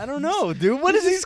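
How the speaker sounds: high-pitched bewilderment; comic high panic; mock losing it. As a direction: blurt it as if your mind is going. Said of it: "like, losing my mind".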